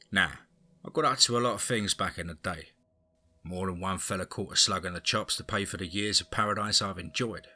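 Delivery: put-on old East End crime lord, Cockney; Cockney accent. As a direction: tell it like an ageing London gangster. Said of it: "I brought forth my Cockney".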